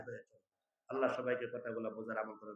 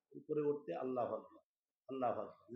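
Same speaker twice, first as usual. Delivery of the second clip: softer, as if reading a sign in the lift; quiet reading; 2 semitones lower, 6 dB quieter than usual. Shown as a demonstration. Preacher reading the lift sign aloud, quiet. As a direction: read it under your breath.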